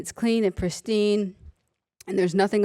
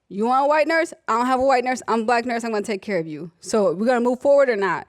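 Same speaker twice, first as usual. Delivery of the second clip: higher, no-nonsense laying down of terms; firm and direct; 4 semitones higher, faster than usual. Retold or imitated. Nurse tells the patient plainly who will care for her. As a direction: set the terms straight. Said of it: "we set our expectations".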